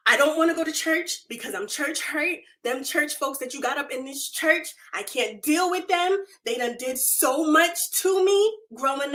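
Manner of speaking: retold rant to God, mildly worked up; aggrieved complaining prayer; angry venting. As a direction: pour out grievances one after another. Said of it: "I was angry. I was cussing out the Lord".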